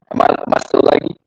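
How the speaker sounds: choppy, cutting-out call audio; laggy video call. Real, not acted. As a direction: voice glitching over bad Wi-Fi. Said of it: "It's lagging like a motherfucker".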